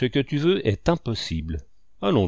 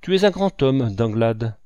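joyful cry; 4 dB louder than usual. Acted. Michaud praising his partner, a joyful loud cry. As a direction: cry it out in delight. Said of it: "cria-t-il dans un véritable transport de joie".

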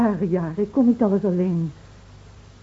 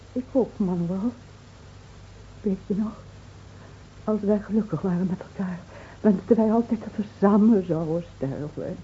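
tender and soft; 5 dB quieter than usual. Acted. Teder herinneren.

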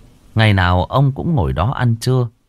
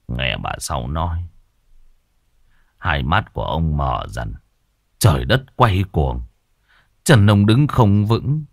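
choked up; 4 semitones lower than usual. Acted. Grandfather recalling the news of the death, choked up. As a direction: hold back tears as you remember. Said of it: "Ông nghẹn ngào".

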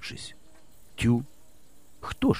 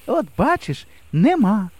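cheerful; 8 semitones higher, slower than usual. A narrator's reading. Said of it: "весело сказала".

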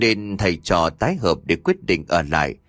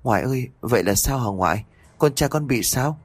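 whimpering; 2 semitones higher than usual. Acted. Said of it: "mếu máo nói thêm".

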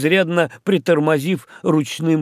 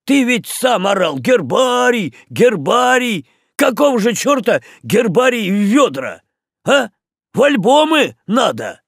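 loud, higher scolding tirade; angry rant; 10 semitones higher, 5 dB louder than usual. A narrator's reading. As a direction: tear into him, loud and high. Пахомыч scolds the captain angrily.

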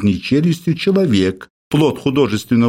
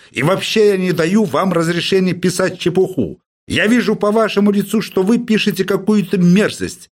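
howling professor; 7 semitones higher than usual. Acted. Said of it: "завыл Персиков".

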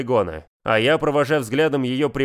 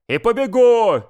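loud, high defiant yell; 9 semitones higher, 6 dB louder, slower than usual. Acted. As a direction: bellow it back at her. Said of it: "заорал я в ответ".

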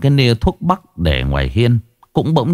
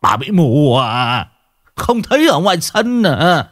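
high, panicked telling-off; frightened scolding; 10 semitones higher than usual. Acted. Mr. Đức, hiding under the blanket, scolds his wife in fear. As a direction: snap at her in terror. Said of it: "Ông mắng vợ".

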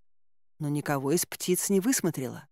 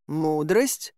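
incredulous rising echo question; недоверчиво; 2 semitones lower than usual. Acted. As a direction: query the word with mild disbelief. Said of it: "недоверчиво переспросил Замок". (недоверчивый переспрос)

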